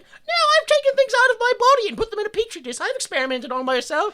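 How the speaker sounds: mock proud scientist. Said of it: "she's like".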